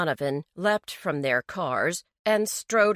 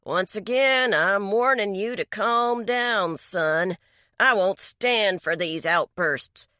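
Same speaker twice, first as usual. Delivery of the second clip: threatening; 2 semitones higher, 4 dB louder than usual. Acted. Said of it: "Donovan threatened".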